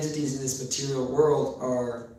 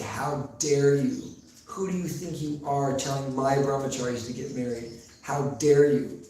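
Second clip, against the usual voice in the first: retold fury. Prabhupada rebuking Shamasundar for telling brahmacharis to marry, mock fury. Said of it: "Prabhupada became very furious".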